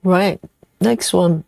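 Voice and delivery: talking with a mouthful of chocolate; mouth full. Real, not acted. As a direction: say it while chewing, mouth full. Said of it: "Sorry, I'm talking with food in my mouth".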